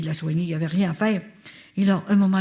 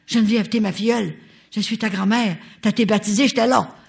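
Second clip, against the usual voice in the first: louder, insistent grandmother voice; firm grandmother; 4 semitones higher, 5 dB louder than usual. Retold or imitated. Grandmother insisting to her goddaughter, louder. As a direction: lay down the law as grandma.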